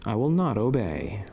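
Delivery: a sinner's refusal, whispered; hushed, defiant whisper of a stubborn sinner; whispered defiance. Acted. Sinner defies God, whispered.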